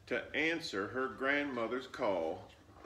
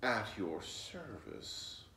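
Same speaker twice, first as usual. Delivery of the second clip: sly fox bowing; much slower than usual. Acted. Fox bowing to Flossie, slow and oily. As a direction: drawl it with a smug bow.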